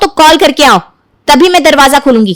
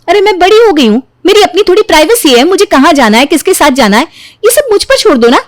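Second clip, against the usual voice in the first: higher, exasperated protest; indignant outburst; 4 semitones higher than usual. Acted. Daughter protesting to mother about privacy. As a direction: push her mother away.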